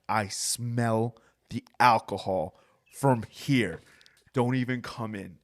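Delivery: a hint of a stern boss, slow; slow, firm boss ordering him out; stern manager voice. Drunk teller quotes his manager.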